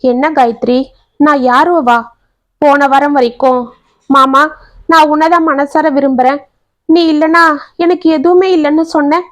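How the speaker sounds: mild hurt surprise, lightly voiced; surprised asking. To Gayathri as she pulls away, mildly surprised. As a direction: ask it a little taken aback. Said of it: "என்று ஆச்சரியமாக கேட்டான்".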